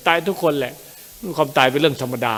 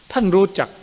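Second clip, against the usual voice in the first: ท่านรู้จัก jumps up high and louder, astonished; puzzled surprise; 8 semitones higher, 5 dB louder than usual. A narrator's reading. The ogress's son asks the prince, startled and high. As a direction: ask it in sudden bewildered disbelief. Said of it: "กล่าวด้วยอาการฉงน".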